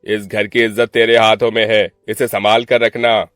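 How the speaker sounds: mildly affectionate elder brother; understated brotherly fondness; showing affection. Acted. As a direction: reassure a scared sister, with firm weight. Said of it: "प्यार जताते हुए कहा".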